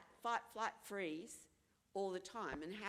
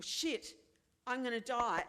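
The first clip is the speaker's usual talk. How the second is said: panicked inner voice; 3 semitones higher, 7 dB louder than usual. Retold or imitated. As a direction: blurt out sudden terror. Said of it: "your next response is".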